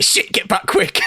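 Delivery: hushed, panicky, getting away quick; panicked whisper. Retold or imitated. Panicked in-game quote, whispered.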